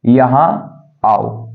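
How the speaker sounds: drawn-out yahaan aao, word by word; slow dictation. Shown as a demonstration. Teacher to class, slow dictation. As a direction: dictate "यहाँ आओ" slowly for students to write. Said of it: "पहले इसको बनाते हैं".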